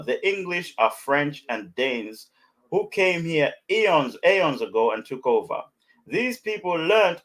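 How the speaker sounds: slow, measured comment read-out; reading aloud. Acted. Host reading a friend's message to listeners, slow read-out. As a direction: read it out slowly, phrase by phrase.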